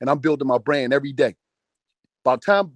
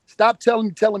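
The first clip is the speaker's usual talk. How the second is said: emphatic; 5 semitones higher, 3 dB louder than usual. Real, not acted. Lecturing aspiring rappers.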